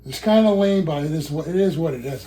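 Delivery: winded, talking between breaths; breathless from effort. Real, not acted. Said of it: "I'm out of breath and shit".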